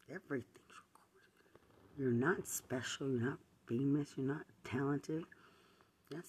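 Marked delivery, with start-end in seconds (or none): 0.1-2.0 slow, voiceless, menacing whisper; threatening whisper. Real, not acted. Warning the man that everything is recorded, menacing whisper. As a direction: lean in and let the warning land quietly.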